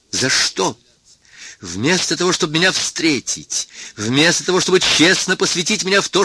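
громкий гневный крик, выше обычного; кричит на учёного, требуя ответа. A narrator's reading. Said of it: "что я ещё кричал". (гневный крик Кельвина на Сарториуса)

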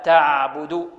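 slow تعبد with the ayn flowing; correct medium ayn. Shown as a demonstration. Teacher corrects the mistake for pupils, slow flowing ayn. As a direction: stretch the ayn a little in تعبد. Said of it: "العين هنا حرف متوسط".

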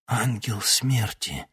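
slow hoarse rasp, lightly voiced. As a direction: rasp out the words slowly. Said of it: "Старик прохрипел".

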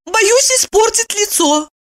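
high plaintive lament; a touch of a plaintive sigh; complaining. A narrator's reading. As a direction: whine about it seriously. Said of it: "посетовала она".

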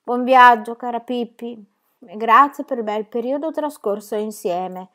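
dutiful, slow recitation of "Buon viaggio, cara Pippi"; slow, careful farewell by rote; obedient recital. Acted. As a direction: recite it like well-behaved children. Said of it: "dissero Tommy ed Annika obbedienti".

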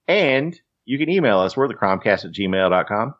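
lightly put-on auctioneer patter; George Clooney. Host telling the folks where to find the podcast, in mock auctioneer voice. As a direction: rattle it off with a hint of an auctioneer. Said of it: "I like the auctioneer level voice you put on".

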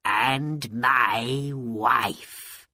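happy magician. Acted. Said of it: "Abanazar said happily".

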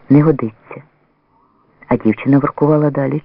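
usual speaking voice

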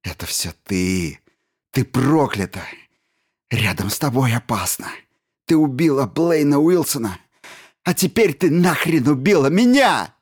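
starts muttered, rising to a loud, high outburst; building accusation. A narrator's reading. Stevens rises from a mutter to shouting blame at Jensen.

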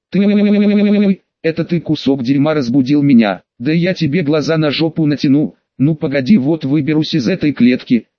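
bass male roar. Acted. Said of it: "как заорёт басистым мужским голосом".

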